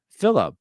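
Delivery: Philippa said high and puzzled, sounding out Phila; misreading Phila. Shown as a demonstration. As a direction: read the abbreviation as a name. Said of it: "It just says Phila".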